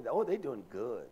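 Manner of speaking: lightly mock admiration with a swooping oh; mimicked gushing approval. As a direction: imitate folks gushing over someone's kids. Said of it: "That's how we talk".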